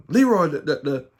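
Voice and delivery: lightly voiced mother calling out. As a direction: hurry him to the phone. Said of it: "my mother saying".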